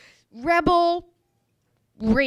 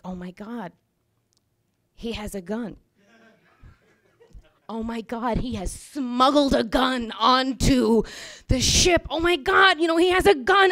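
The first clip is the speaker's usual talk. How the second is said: a whisper of dread swelling into alarm; rising panic. Retold or imitated. Narrator sees a biker approach and fears a gun, building panic.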